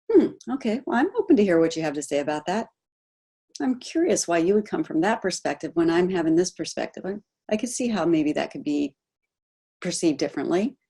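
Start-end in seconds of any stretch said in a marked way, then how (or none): 0.1-7.0 open and curious. Acted. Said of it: "rise above the line and say".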